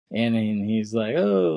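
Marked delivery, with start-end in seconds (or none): 1.2-1.5 high, loud, drawn-out gushing greeting; putting on charm. Retold or imitated. Imitating Amos happy to see him now, all charming. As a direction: imitate someone laying on the charm. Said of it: "he's trying to be all charming".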